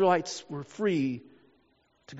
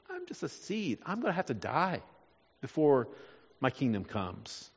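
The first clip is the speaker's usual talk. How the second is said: humble resignation; 7 semitones lower, 9 dB quieter than usual. Acted. Preacher voices Jesus accepting death as a seed, hushed and resigned. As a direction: say it softly, accepting what must come.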